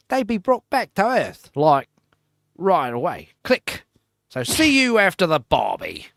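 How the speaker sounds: lightly Australian presenter read; a hint of Australian TV host; mock Australian host. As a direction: slide into a mild Australian accent. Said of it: "It just always becomes Australian".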